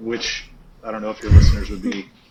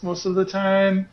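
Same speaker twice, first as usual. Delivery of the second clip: lightly voiced Gen Z drawl; casual Gen Z teen talk; 6 semitones higher, slower than usual. Shown as a demonstration. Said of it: "he talks like this".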